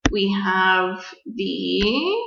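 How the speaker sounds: teacher's slow pointing voice; slow pointing phrase. Shown as a demonstration. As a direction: stretch "we have the" as if pointing. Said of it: "So here".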